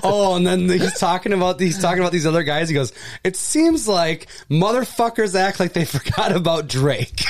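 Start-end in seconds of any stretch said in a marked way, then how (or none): 3.2-7.2 lightly imitated rapper line, a little higher; impression of a rapper. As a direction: quote it like a rap lyric, amused. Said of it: "Little rapper impression".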